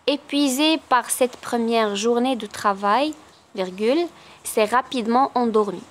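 very slow, naming each punctuation mark; slow dictation reading. Acted. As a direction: dictate it word by word.

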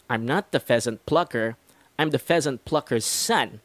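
each line of the twister said slowly and carefully; slow practice read; slow tongue twister. Shown as a demonstration. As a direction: take the twister slowly, word by word. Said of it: "Let's go slowly first".

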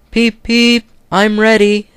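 very high, bright whistle voice; Edward the little engine. Acted. Edward behind the brake van ready to push, high eager peep. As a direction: chirp it like a keen little engine. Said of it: "said Edward".

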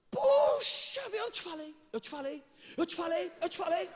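a hint of a high, whiny brother; mock exasperated brother. Brother telling his sister he warned her, mock whine. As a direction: play the brother rubbing it in. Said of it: "O irmão falou assim".

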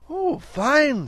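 put-on high, admiring boy's voice; boy Willie. Willie to Edwin, appreciative boy. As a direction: approve like a young man.

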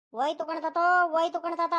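lightly mimicked cry of a boy; imitating the boy. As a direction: echo a grandchild's wail. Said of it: "ಅನ್ಕೊಂಡ್ ಬರ್ತಿದ್ದಾನೆ".

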